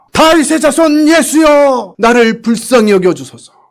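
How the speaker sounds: loud shout.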